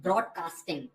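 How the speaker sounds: broadcasting said with each syllable formed clearly; broadcasting, spoken with deliberate articulation; jaw practice demo. Shown as a demonstration. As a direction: model broadcasting carefully for learners. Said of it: "speak it like this way".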